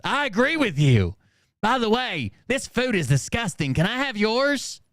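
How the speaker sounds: a lightly voiced fawning inmate; mock fawning inmate. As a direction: agree fast, then ask for the food. Mocking inmate agreeing for food.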